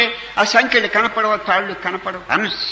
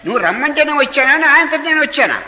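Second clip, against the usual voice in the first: aggrieved complaint; 4 semitones higher, 3 dB louder than usual. Acted. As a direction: reproach the god, you never called me. Devotee quarrels with Arunachala.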